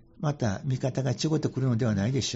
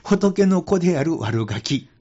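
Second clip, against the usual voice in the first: 仏の子である悪ガキ said slowly and louder, each word weighted; slow emphatic phrase; 4 semitones higher, 6 dB louder, slower than usual. Shown as a demonstration. Monk to radio host, stressing his phrase: slow and emphatic. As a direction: lean on 悪ガキ, drawn out and firm. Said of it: "私はこんな言い方してるんですけど".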